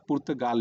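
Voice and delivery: पुर्तगाल with long "aa" in last syllable; Hindi-spelling pronunciation. Shown as a demonstration. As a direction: say पुर्तगाल as written, pur-ta-GAAL. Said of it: "लिखा हुआ मिलता है हिंदी में". (पुर्तगाल का हिंदी उच्चारण)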